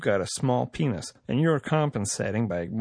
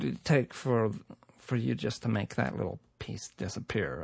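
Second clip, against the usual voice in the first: softer, conspiratorial murmur; hushed bargaining; 5 dB quieter than usual. Acted. Official quietly asking the podcaster to bury the clip, hushed. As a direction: drop the voice to cut a deal.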